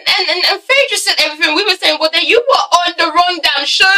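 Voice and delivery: heated and emotional. Real, not acted. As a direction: blurt it out fired up.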